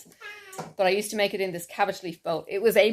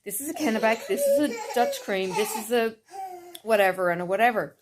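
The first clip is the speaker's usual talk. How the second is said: shop staff voice; 3 semitones higher than usual. Retold or imitated. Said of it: "They will tell you".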